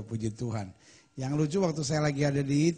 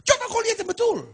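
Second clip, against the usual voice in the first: much higher, louder put-on voice snapping back; mock angry retort; 4 dB louder than usual. Committee chairman snapping back at the Papuan man, mock angry and high. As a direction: shout it back high and indignant, half-comic. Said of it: "dia marah lagi".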